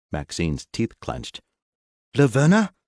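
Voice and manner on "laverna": high, loud sudden gasp of a name; shocked realization. Acted. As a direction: it suddenly clicks. Maxine realizes betrayal.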